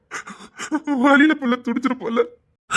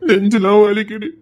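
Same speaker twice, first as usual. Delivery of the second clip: weeping, chest aching; crying. Acted. Father telling his wife at night, weeping. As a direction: let the guilt spill out in sobs.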